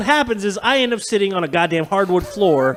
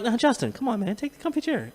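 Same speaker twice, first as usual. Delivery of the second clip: polite insisting; 5 semitones higher, 7 dB quieter than usual. Retold or imitated. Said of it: "And I'm like".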